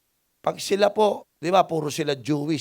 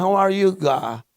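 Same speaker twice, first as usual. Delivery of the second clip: put-on slow, loud, high Batangueño accent; exaggerated Batangueño lilt; Batangas accent; 4 semitones higher, 6 dB louder, slower than usual. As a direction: stretch the English out in a Batangas accent. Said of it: "Eh, Batanggenyo".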